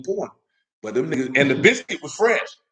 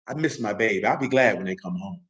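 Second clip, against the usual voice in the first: missing parent; 7 semitones lower, 3 dB quieter than usual. Retold or imitated. Voicing a parent missing child.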